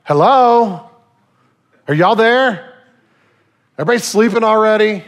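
mock call to see if anyone is awake; half-teasing preacher hailing an unresponsive congregation; checking for a response. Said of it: "sometimes I'm like".

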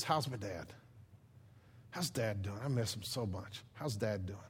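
tender longing. Acted. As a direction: ask gently about a missed father. Joseph longing for his father.

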